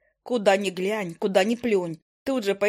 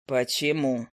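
lower, unhurried familiar's voice; a grumpy bird drawling down low; low owl familiar; 7 semitones lower, slower than usual. Acted.

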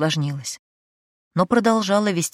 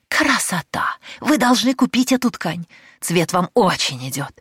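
gushing merchant; 3 semitones higher, 3 dB louder than usual. Acted. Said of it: "с придыханием".

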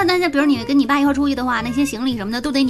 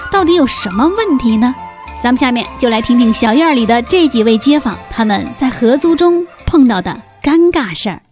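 loud cheerful host opening; host announcer; 5 dB louder than usual. Acted. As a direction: greet listeners like a radio host.

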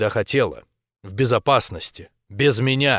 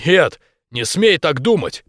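louder, higher and slower insistence; husband forbids her, louder and higher; forceful denial; 7 semitones higher, 6 dB louder than usual. A narrator's reading. (муж громко и твёрдо запрещает)

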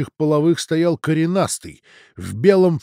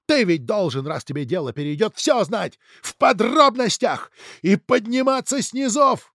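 heated reproach; 3 semitones higher than usual. Acted. Father argues back.

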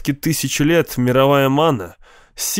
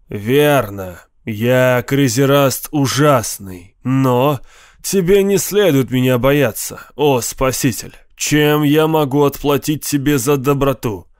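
big, slow, booming genie; a mighty ifrit, generous and grand; friendly monster voice. Acted. (голос могучего доброго джинна)

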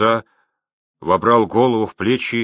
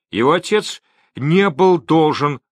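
higher, lightly gleeful announcement; pleased with himself; 6 semitones higher, 4 dB louder than usual. A narrator's reading. Trader addressing the crowd, pleased with his quick thinking. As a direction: announce it with raised pitch, pleased. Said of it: "радуясь своей находчивости".

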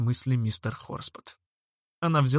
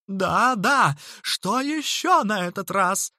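higher, louder, fed-up snap; exasperated; 7 semitones higher, 4 dB louder, slower than usual. A narrator's reading. Horspot interrupted again, exasperated with the boy. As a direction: bite out the question.

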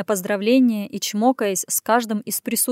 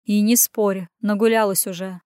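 rumbling. Acted. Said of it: "пророкотал".

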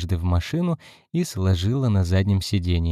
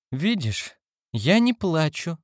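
teary denial; 8 semitones higher, slower than usual. A narrator's reading. Cindy sniffing, denying tears.

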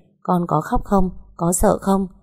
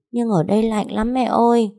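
put-on higher, pleading child's voice; a homesick small child begging to go home; little girl voice; 5 semitones higher than usual. Little daughter begging mother to take her home.

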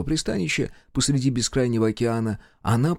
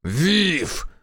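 shouted name; 8 semitones higher than usual. Acted. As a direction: shout it out of breath. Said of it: "капитан выкрикнул имя наёмницы".

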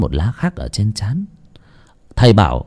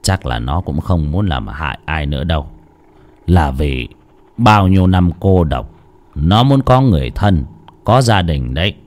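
put-on sighing old master; 4 semitones lower than usual. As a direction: speak it low after a long sigh. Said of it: "Ông thầy Phẩm thở dài". (giọng ông thầy trầm, thở dài mệt mỏi)

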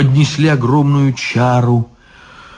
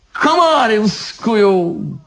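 ordering; 9 semitones higher, slower than usual. Acted. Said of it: "велел изящный музыкантам".

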